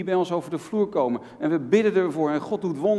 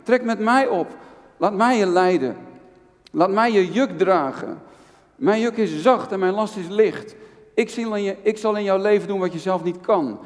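voice of Jesus; 4 semitones higher than usual. Acted. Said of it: "zegt de Heer Jezus".

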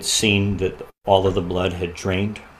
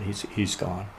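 broken; 15 dB quieter than usual. Retold or imitated. Telling wife their son died.

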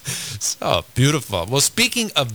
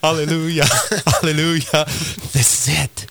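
joyful exclaim; 6 semitones higher than usual. Real, not acted. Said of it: "host exclaims joyfully".

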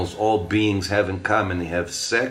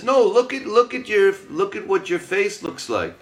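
urgent coaxing; 10 semitones higher than usual. Acted. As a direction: push him to finally see himself. Big lion urges cub to look.

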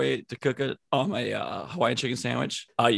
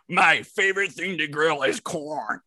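mocking imitation; slower than usual. Mockingly quotes co-host's old claim.

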